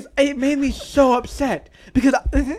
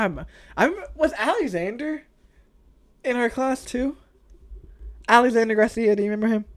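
ordinary delivery

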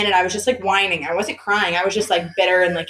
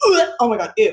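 mock grossed-out groan; playfully repulsed; retold disgust; 3 dB louder than usual. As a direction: recoil in disgust, imitating a sister. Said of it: "she was grossed out".

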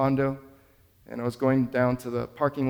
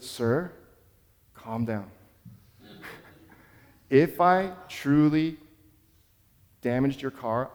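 calm reassuring; 2 semitones lower, slower than usual. Retold or imitated. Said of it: "I just verbalized calmly".

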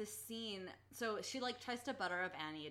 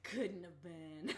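slow, laughing echo of her own words; drawn-out laugh; 2 semitones lower, slower than usual. Real, not acted. Echoing her own line to her co-host, slow and laughing. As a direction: stretch it out as she laughs.

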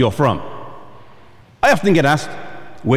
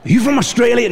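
higher mock-eager question; mock guesser; 8 semitones higher than usual. An American stranger guessing his origin, eager and higher. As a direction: ask brightly, sure of your guess.

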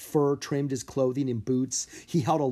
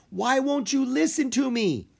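high, raised voice, desperate; pleading yell; 13 semitones higher, 4 dB louder than usual. A narrator's reading. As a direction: plead with him at full voice. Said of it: "Mina yelled at her dragon".

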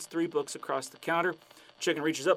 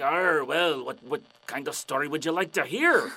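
growly opening arr; stagey pirate voice; 5 dB louder than usual. Acted. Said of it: "the pirate's like".

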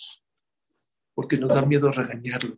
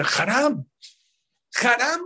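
high, louder cry of pity; acted lament; 10 semitones higher, 4 dB louder, slower than usual. Maestro pitying his pupils, acted high lament. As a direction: lament it in a raised, higher voice.

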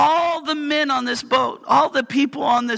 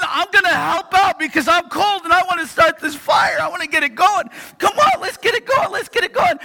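raised, pushing voice, fast to get the fire going; eager and impatient; 4 semitones higher than usual. Acted. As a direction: urge everyone on like you're cold and fed up.

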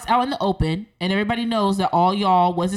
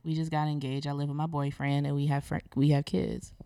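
quiet, lower Southern country accent; 5 semitones lower, 9 dB quieter than usual. Shown as a demonstration. Reading a sentence on request for the hosts, tentative country accent. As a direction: softly try an Alabama-Georgia country accent. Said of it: "in your country accent".

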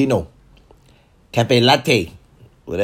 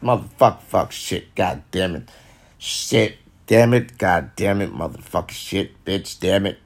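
demo cussing; 2 semitones lower than usual. Shown as a demonstration. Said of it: "you ain't gotta tell them".

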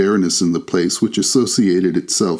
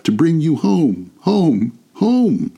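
put-on very high, climbing child voice; gleeful little girl; 8 semitones higher, slower than usual. A narrator's reading. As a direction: repeat it with mounting joy. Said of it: "brimful of glee".

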